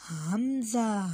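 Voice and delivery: touch हमज़ा at the back of the throat; throat letter demo. Shown as a demonstration. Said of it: "आवाज़ थोड़ी ऐसे आए".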